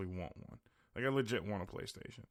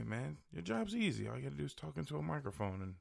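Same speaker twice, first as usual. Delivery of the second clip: higher-pitched mocking imitation; imagined dismissive listener; 5 semitones higher than usual. Imagined listener dismisses podcasting as easy, mocking. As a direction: mimic a critic in a lifted voice. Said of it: "And you might say".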